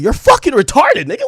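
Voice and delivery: high, loud incredulous outburst; exasperated. Retold or imitated. Host's unspoken thought about the rapper, exasperated. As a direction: burst out in disbelief.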